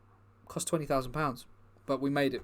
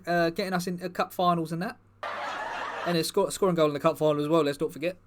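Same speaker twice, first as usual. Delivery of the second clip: footballer character, a bit higher and louder, rambling; lightly voiced footballer persona; 4 semitones higher, 4 dB louder than usual. Footballer persona chats to the comedy crowd, lightly voiced, eager. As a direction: play the bumbling star footballer, eager and chatty. Performer plays the Park Chu-young persona.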